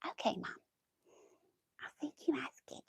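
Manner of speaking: half-whispered retold reply; quiet mock compliance. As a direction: say it softly under your breath, humoring mom. Retold reply to her mom.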